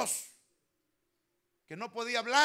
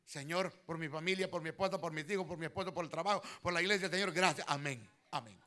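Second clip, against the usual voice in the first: mock shopping-list prayer; 2 semitones lower, faster than usual. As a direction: pray like reading a grocery list. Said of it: "Como que vamos al supermercado".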